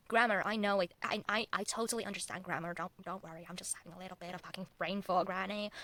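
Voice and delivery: quiet, playful attempt at a Southern accent. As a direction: slip lightly into a Southern accent. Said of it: "why am I Southern all of a sudden".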